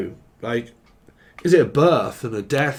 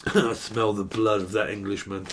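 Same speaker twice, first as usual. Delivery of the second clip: low giant; 5 semitones lower, 5 dB quieter than usual. Pretend.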